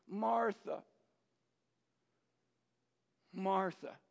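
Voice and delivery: intimate. Retold or imitated. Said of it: "it's very intimate".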